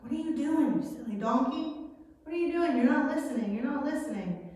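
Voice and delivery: high, scolding voice at the donkey; mock-frustrated rider scolding his animal; exasperated Balaam.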